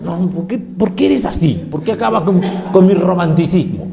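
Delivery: queja algo aguda de romántica ofendida, en burla; chica llorosa imitada. Acted. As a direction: reprocha como chica a quien le arruinan la película. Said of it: "llorando con una película". (imitación ligera de mujer dolida)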